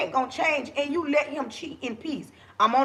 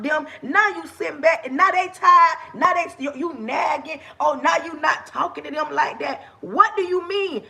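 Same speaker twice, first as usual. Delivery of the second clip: worked up, fussing at the cheating partner; heated rant; 3 semitones higher than usual. Real, not acted. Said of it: "see how I go to talking".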